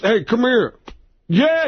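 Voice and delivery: Tracy Morgan calling over. Retold or imitated. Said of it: "and then he goes".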